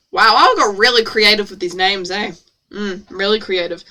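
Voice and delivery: low, unimpressed deadpan; mock your own writing drily; dry sarcasm. Real, not acted. Reader teasing own character names, drily sarcastic.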